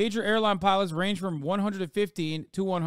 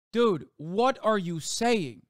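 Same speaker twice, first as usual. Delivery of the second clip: incredulous; 3 semitones higher, much slower than usual. Real, not acted. Incredulous reaction to tweet.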